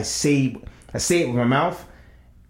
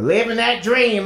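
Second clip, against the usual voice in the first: slow, higher, mock-weary sigh of a line; weary coworker mimic; 8 semitones higher, slower than usual. Morning coworker at the door, mock weary. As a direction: drag it out like a worn-out guy. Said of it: "I opened the door".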